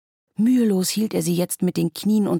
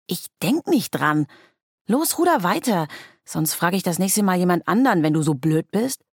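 scolding; 4 dB louder than usual. Acted. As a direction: order him around, annoyed. Girl scolds rower.

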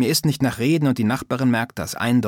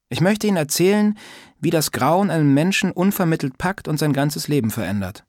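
higher, lightly voiced old neighbour, teasing; a prying old lady scolding lightly; old woman's voice; 5 semitones higher than usual. Old neighbour teasing Sascha about manners, lightly voiced old woman.

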